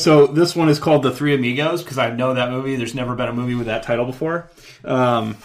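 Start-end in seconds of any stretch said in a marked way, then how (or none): 2.8-5.4 sarcastic. Pretend. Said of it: "Just kidding".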